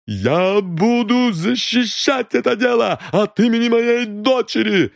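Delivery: high, strained mother's defiance; defiant outburst. A narrator's reading. Mrs Creel defends her daughter. (мать с вызовом кричит детективу)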